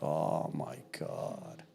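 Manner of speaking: barely voiced, slow and hushed; a stunned near-silent whisper; overcome whisper. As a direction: breathe it out, choked with feeling. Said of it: "And I'm just like".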